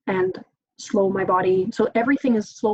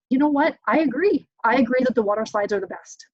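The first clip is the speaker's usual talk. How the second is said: upbeat agreeing parent, higher at the start; validating reply; 3 semitones higher than usual. Shown as a demonstration. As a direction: agree with his feelings warmly. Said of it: "when I say agree".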